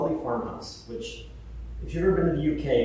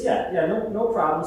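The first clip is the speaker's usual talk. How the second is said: higher, louder easygoing yeah yeah; breezy mock reassurance; 6 semitones higher, 6 dB louder than usual. Patrick waving off the worry, breezy and higher.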